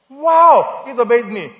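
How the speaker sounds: loud, high, drawn-out mock wow; hammed-up astonishment at a tiny miracle; mock amazement. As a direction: exclaim in pretend wonder, high and loud. Mock amazement at foot obeying command.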